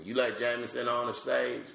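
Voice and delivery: a hint of a woman's voice; lightly voiced wife asking; wife's voice. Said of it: "me doing my wife asking me".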